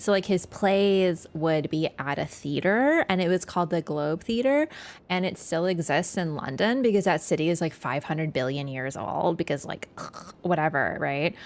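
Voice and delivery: lightly voiced Valley Girl, lots of likes; breezy mock Valley Girl explaining Shakespeare. Telling chat about the Globe in a light Valley Girl voice. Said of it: "I don't know why I went full Valley Girl for that".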